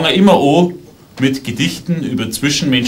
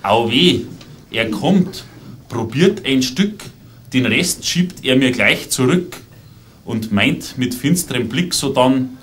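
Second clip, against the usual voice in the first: measured dialect verse with punchline pauses; comic poem recital. Acted. Poet to audience about an Arab visitor, comic recital. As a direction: recite it line by line, pausing before each joke. Recites the poem's second version.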